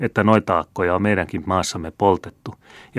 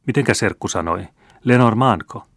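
puzzled question; 3 semitones higher, 3 dB louder than usual. Acted. Grandmother puzzled by strange name.

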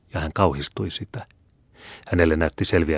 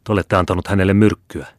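louder, accusing; horror and contempt; 3 semitones higher, 7 dB louder than usual. A narrator's reading. Regina accuses the monk of poisoning, horrified and scornful. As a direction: throw the charge at him in scornful horror. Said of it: "äänellä, joka vapisi kauhusta ja ylenkatseesta".

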